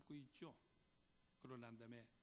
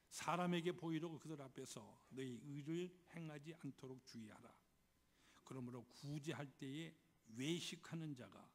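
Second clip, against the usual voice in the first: scripture reading; 4 dB louder than usual. Acted. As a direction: read scripture aloud with deliberate weight. Reads the scripture aloud.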